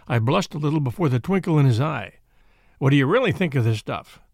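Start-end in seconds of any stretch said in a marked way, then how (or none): none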